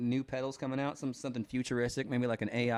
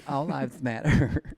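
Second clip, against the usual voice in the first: sassy Southern gay voice; 5 dB louder, slower than usual. Pretend. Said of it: "sassy Southern gay voice".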